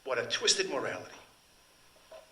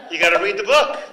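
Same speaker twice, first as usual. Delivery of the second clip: "book" pushed out louder and higher; emphatic urging; 7 semitones higher, 14 dB louder than usual. Real, not acted. Teacher urging listeners to read the novel, louder emphatic. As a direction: insist on it, louder.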